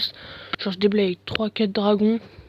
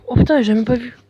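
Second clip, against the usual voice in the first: surprised; 3 semitones higher, 7 dB louder than usual. Real, not acted. Surprise at missed unit.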